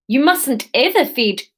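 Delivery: a hint of South African; lightly voiced South African customer; light South African accent. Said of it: "we can do Aleph as South African".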